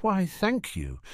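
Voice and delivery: a touch of surprised gratitude; grateful. Acted. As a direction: accept a gift with polite gratitude. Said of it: "Harry said gratefully".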